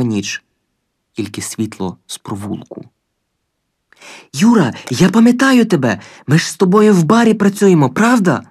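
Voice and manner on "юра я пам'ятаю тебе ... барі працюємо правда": high, loud, eager calling; eager shout. A narrator's reading. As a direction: call to him, desperate to be recognized. Pleading calling to Gagarin.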